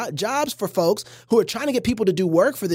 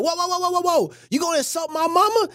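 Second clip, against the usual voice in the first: mock outrage; 9 semitones higher, faster than usual. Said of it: "I'm like".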